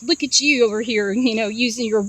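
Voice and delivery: mildly snotty jab. Retold or imitated. Guy mocking the dreamer at work, mildly snotty. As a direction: imitate a condescending put-down. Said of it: "say something really snotty".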